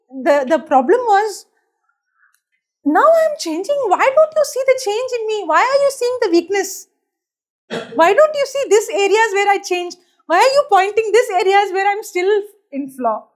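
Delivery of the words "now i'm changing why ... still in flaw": higher-pitched, indignant protest; mock aggrieved questioning; plaintive complaint. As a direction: imitate yourself pleading to be noticed. Acts out her old complaint to family.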